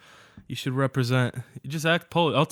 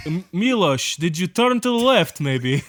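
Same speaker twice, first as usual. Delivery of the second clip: put-on Russian accent; 3 semitones higher than usual. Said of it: "Where this just Russian accent".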